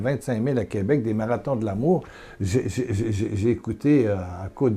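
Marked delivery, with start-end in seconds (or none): 0.0-2.0 boastful prayer. Pretend. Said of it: "je dis".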